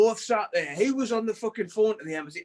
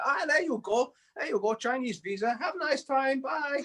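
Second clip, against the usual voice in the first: high-pitched imitation of the clerk; lightly mimicked visa clerk; imitating the visa clerk; 5 semitones higher than usual. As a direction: lift the voice up for the clerk's send-off. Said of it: "She went".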